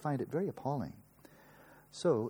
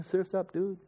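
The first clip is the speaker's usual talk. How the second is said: surfer dude; 8 semitones higher, slower than usual. Retold or imitated. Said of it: "he should be saying".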